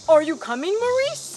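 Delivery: loud, rising call; impatient call. A narrator's reading. Father calling his dawdling son again, loud and impatient. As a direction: call him out, losing patience.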